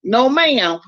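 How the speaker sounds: lightly mimicked Southern politeness; a hint of Southern accent; imitated Southern accent. New Yorker imitating folks down south, light Southern accent. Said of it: "when we go down there, y'all be like".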